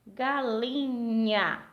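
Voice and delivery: very slow GA-LI-NHA; sílaba por sílaba. Shown as a demonstration. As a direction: stretch "Galinha" out in three separate syllables. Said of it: "três sílabas". (separando as sílabas bem devagar)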